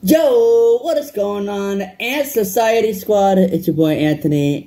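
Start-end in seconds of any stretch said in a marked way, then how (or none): 0.0-3.4 energetic YouTuber greeting, drawn out; big upbeat channel welcome; hype intro. Real, not acted. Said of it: "let me do this intro again".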